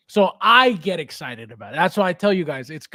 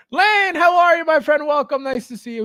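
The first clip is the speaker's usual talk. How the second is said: bright, much higher, louder hello; excited greeting; 8 semitones higher, 6 dB louder than usual. Real, not acted. Host greeting a viewer on his stream, excited and loud.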